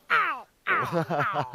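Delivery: playful pained bird yelps; mock pained yelps. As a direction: yelp like a bird with a toothache. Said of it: "Burungnya lagi sakit gigi ya?".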